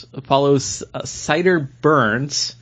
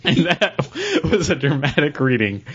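barely holding back a laugh; trying to keep a straight delivery after cracking up; stifling laughter; 3 semitones higher than usual. Real, not acted. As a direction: announce it while fighting off the giggles. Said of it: "could barely get on mic".

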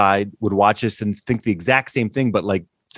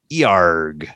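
lower-pitched, botched Australian accent; Australian accent attempt; 6 semitones lower than usual. Shown as a demonstration. Cohost asked to do an Australian accent, attempting it badly. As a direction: try out an Australian accent on one word. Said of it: "Can you do an Australian accent".

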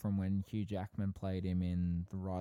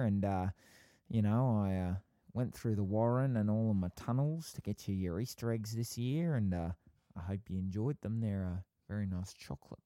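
put-on Easter Bunny accent. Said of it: "Do the Easter Bunny already".

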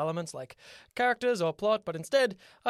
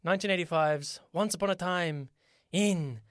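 a mock Aladdin-style announcer; odd accent; 2 semitones higher than usual. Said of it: "I don't know why I did that accent".

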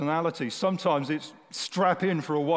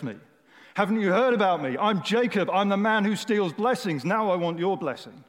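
raised, insistent plea; insistent demand; 3 semitones higher, 3 dB louder than usual. Acted. Jacob refusing to let the stranger go, insistent. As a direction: demand it with mounting urgency.

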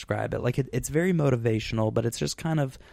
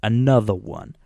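loud, accidental demonic croak; demon in the throat; 7 dB louder than usual. Real, not acted. Host's word catches on a throat bubble, demonic croak. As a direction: let a small bubble in the throat garble it loudly. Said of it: "What the fuck demon was in your throat?".

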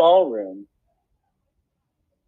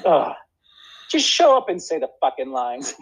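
mock aggressive; 3 semitones higher than usual. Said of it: "aggressive in a funny way".

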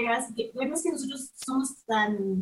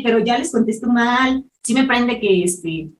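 loud; 9 dB louder than usual. Real, not acted. Fuming about valet staff.

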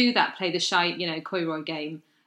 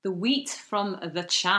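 slow, drawn-out Scottish echo; Scottish accent, lingering on the words; Perthshire accent; slower than usual. Acted. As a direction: echo it slowly with a Scottish lilt. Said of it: "That was quite a Perthshire accent".

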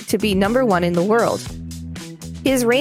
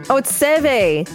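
higher, dawning "oh"; sudden realisation; 6 semitones higher, slower than usual. Real, not acted. Co-host realising she misread the golfer's name, sudden realisation.

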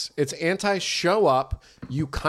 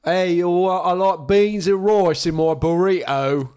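mock defiant; 4 semitones higher, 5 dB louder than usual.

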